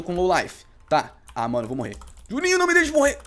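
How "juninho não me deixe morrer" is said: higher, louder plea to the teammate; desperate plea. Real, not acted. Gamer begging Juninho not to let him die, loud plea. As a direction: call out desperately for help. Begging ally while low life.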